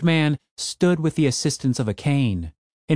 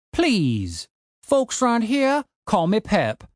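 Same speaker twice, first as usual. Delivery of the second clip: put-on high, slow grumpy old codger; cranky old man; 9 semitones higher, much slower than usual. A narrator's reading. Old man ordering his broken zombie gardener, gruff old voice.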